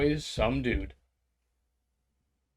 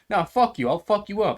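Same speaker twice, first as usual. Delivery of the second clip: higher, louder imitation of a hothead; acted angry threat; 7 semitones higher, 6 dB louder than usual. Train rider threatens the man who bumped him, acted anger. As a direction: pick a fight, voice raised. Acts out aggressor in train fight.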